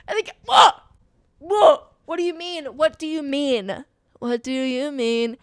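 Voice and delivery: high loud squealing "what?" fading to a breathless repeated question; stunned disbelief. Real, not acted. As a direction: react as if the line just knocked you over. Overwhelmed fan reacting to line.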